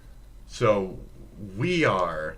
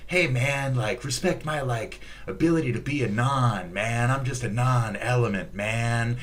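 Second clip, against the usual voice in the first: beatnik; 3 semitones higher than usual. Retold or imitated. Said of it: "the beatnik".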